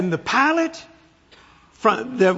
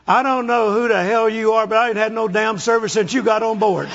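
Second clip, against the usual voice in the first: complaining passenger; 4 semitones higher than usual. Retold or imitated. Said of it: "the man sitting next to me".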